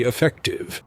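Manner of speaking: soft whispered word; whispered aside. Acted. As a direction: drop to a whisper. Trails into whisper.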